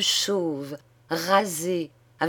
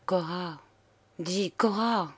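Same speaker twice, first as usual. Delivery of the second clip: softer, anxious murmur; 6 dB quieter than usual. Acted. Worried husband to his silent wife, soft murmur. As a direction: call her name under his breath. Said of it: "il murmura".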